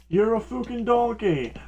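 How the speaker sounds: high mock-angry insult; play-acted chef's outburst; Gordon Ramsay. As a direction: hurl it like an irate TV chef. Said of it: "my favorite Gordon Ramsay d-, uh, insult".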